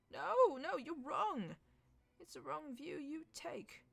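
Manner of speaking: loud, high insistent no; emphatic protest. A narrator's reading. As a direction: protest urgently. McMaster protests.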